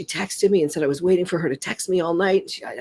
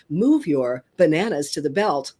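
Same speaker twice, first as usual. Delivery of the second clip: lower, even checkout machine prompt; automated voice; 5 semitones lower than usual. Shown as a demonstration. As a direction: read it like a recorded store announcement. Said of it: "you hear".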